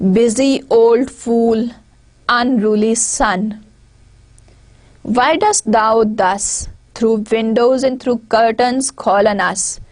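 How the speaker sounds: slow, deliberate verse reading; poem recitation. Acted. Teacher quoting the poem before explaining it, slow recitation. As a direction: recite slowly, pausing after each phrase.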